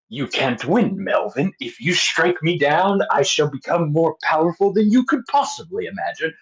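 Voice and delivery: lightly hammed-up movie villain duel; villain quote. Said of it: "can you quote the scene".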